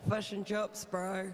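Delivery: put-on jokey Kiwi accent, fush and chups; New Zealand accent, said for a laugh. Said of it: "speak with a real Kiwi accent".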